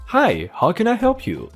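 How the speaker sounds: sugary retail greeting; customer service voice. Retold or imitated. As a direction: pop up all bright and helpful. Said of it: "in my best customer service voice".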